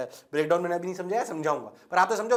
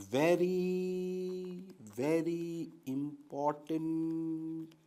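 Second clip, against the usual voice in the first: soft, lowered, drawn-out words with long pauses; very slow emphasis; 3 semitones lower, 8 dB quieter, much slower than usual. Real, not acted. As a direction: let each word sink in slowly. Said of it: "धीरे धीरे इसलिए बोल रहा हूँ". (बहुत धीरे, खींचकर समझाते हुए)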